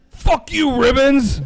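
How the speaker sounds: put-on high, loud drunken yell; drunk shout. Drunk regular yelling at the bartender. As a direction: bellow it like a drunk at closing time.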